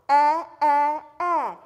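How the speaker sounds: "Eh, eh, eh" loud and punchy; letter sound drill. Shown as a demonstration. Teacher modelling the kids' loud E sound. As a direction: bark out the short E. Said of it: "What does it say?".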